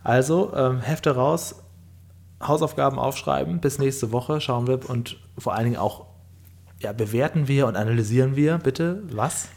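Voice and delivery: strict teacher. Pretend. Teacher ordering homework.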